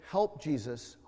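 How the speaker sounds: low, soft prompting voice; quietly feed a child the words; retold whisper. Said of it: "I whispered and said".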